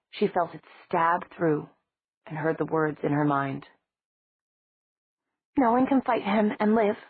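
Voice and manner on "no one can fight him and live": painfully. Acted. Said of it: "she said painfully".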